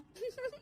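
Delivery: soft, high snicker; sly giggle. Acted. Daughter-in-law gloating at the mirror, sly soft giggle. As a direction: giggle secretly to yourself.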